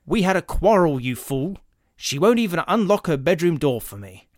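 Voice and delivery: loud, exasperated outburst; angry. Acted. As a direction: snap at the fool. Gardner yells at clerk.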